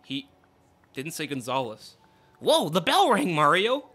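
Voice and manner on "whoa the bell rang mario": excited shout. Acted. Reread line.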